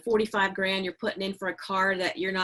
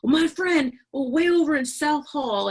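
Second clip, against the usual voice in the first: imitating grumbly man; 7 semitones higher, 6 dB louder than usual. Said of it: "And he said".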